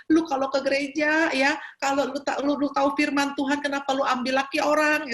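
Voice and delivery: lightly acted indignant challenge; mock scolding. Preacher silently rebuking the woman who took another's husband, mock scolding. Retold inner scolding of caller.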